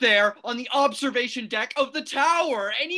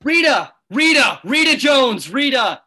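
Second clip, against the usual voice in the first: loud, urgent calling out across a distance; frantic shout to a friend crossing the quad; shouting her name; 10 dB louder than usual. Acted. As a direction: yell for her in panic. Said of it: "he shouts".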